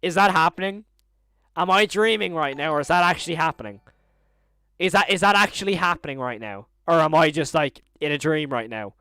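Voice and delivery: loud, incredulous questioning; stunned disbelief. Real, not acted. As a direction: demand to know if this is real. Stunned, asks if dreaming.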